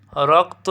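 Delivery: রক্ত split as "rok... to"; pause at hasanta. Shown as a demonstration. Teacher showing students where to stop, broken syllable demonstration. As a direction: stop after "rok" in রক্ত, then add "to". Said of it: "যেখানে থামবা ওখানে হসন্ত".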